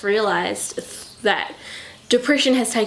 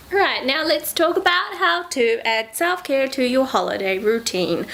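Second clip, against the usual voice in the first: flat robotic monotone; 3 semitones higher than usual. Real, not acted. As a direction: read it like a robot. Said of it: "I don't know why I sound like a robot".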